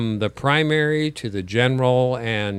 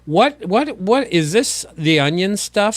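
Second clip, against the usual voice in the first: high, loud disbelieving what what what; can't believe this headline is real; incredulous; 7 semitones higher, 5 dB louder than usual. Real, not acted. Host reacting to absurd news story, incredulous and loud.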